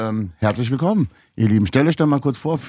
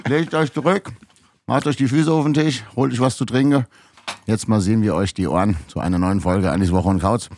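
podcast intro host. Acted. Host opens the podcast episode.

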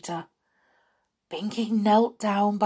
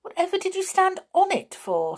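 high-pitched, baffled question; incredulous, voice pitched right up; puzzled; 13 semitones higher, 3 dB louder than usual. A narrator's reading. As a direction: ask in sheer bewilderment.

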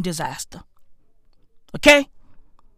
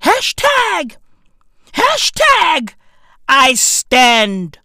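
mock shout; 5 dB louder, slower than usual. Comedian yells a mock hashtag slogan at his audience, mock shout. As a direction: yell it like a protest slogan.

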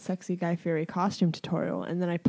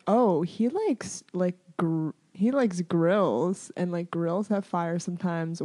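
slow musing; 3 semitones lower than usual. Retold or imitated. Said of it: "I'm like".

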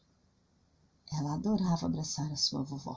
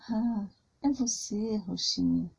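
grandma voice; 3 semitones higher, slower than usual. Acted. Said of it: "com a voz de vovó".

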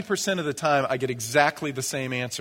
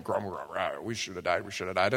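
low, much softer mumbled complaint; grumbling Israelites; 7 semitones lower, 7 dB quieter, faster than usual. Retold or imitated. Preacher voicing the Israelites grumbling in the wilderness. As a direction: mutter like a sulky crowd. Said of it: "So they went".

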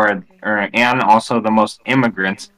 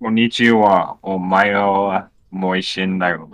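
mock anime Japanese; 5 semitones lower than usual.

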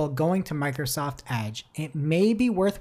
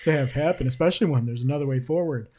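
put-on Australian accent; faster than usual. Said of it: "Is that your Australian accent?".

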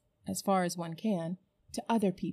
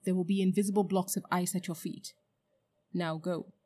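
menacing witch. Acted. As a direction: threaten with cold certainty. Witch threatening Uncle Andrew.

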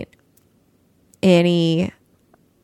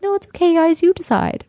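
mock meek bride; 9 semitones higher than usual. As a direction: sneer at her spineless agreeableness. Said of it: "be like".

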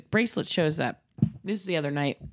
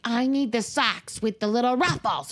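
put-on child in meltdown; 5 semitones higher than usual. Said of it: "then there's a giant meltdown".

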